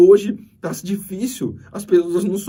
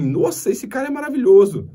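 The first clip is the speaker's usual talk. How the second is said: higher, louder mock admiration; impressed exclamation; 8 semitones higher, 5 dB louder than usual. Coworkers imitated gushing over a polite guy, higher and louder. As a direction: gush over how wonderful he is. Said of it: "as pessoas vão falar assim".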